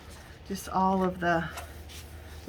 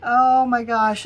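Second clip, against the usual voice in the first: delighted exclaim; 4 semitones higher, 9 dB louder, slower than usual. Real, not acted. Gushing over the bat's gown.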